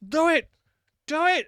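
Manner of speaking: high, loud imitation of a guy yelling; high-pitched mock yell; imitated yelling. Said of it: "this guy yelling at me".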